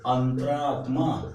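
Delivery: अंतरात्मा said slowly, syllable by syllable; slow careful word. Shown as a demonstration. Teacher correcting spelling, slow अंतरात्मा. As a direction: stretch अंतरात्मा for the class. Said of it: "यही सही था".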